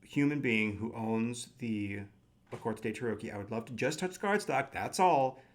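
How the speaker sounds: mock-polite stranger at the door; lightly hammed-up courtesy; very politely. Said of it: "very politely".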